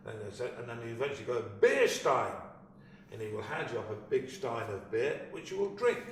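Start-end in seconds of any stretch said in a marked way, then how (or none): 1.6-2.3 final guess. Retold or imitated. Punchline guess acted out.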